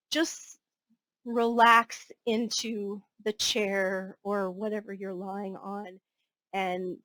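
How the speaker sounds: slow, easing relaxation guidance; guided relaxation. Acted. Yoga nidra teacher settling listeners into the chair, slow guided relaxation. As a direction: ease them gently down, taking time over each phrase.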